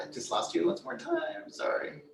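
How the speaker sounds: whispering. Real, not acted. Host muttering to self on call.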